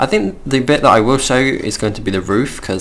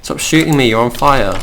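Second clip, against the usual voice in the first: indignant protest; 3 semitones higher, 4 dB louder than usual. Real, not acted. Player to a skeleton shooting at them, indignant. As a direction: protest at the attacker, pitch raised.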